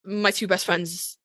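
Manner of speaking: put-on mope like a lonely old man; lightly voiced old man. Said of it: "when he's like".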